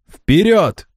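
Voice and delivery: rally them onward; commanding shout. A narrator's reading. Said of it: "повторил Рокамболь". (команда вперёд)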